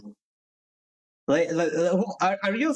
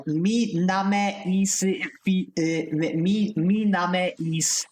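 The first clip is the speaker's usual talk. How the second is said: slow, halting mock learner English, stumbling on mi; mock broken English; 3 semitones higher, much slower than usual. Mocking how straight A students introduce themselves, slow and halting. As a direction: spell out the words like a struggling beginner. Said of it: "They, they spoke like this".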